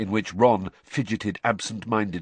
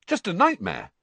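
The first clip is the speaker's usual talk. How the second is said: bracing; 10 semitones higher, 5 dB louder than usual. Acted.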